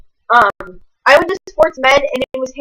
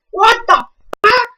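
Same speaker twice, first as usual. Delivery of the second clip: high, slow, strained mock outrage; outraged disbelief; 11 semitones higher, slower than usual. Teen upset about a face cut before homecoming, high shriek. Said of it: "I literally was like".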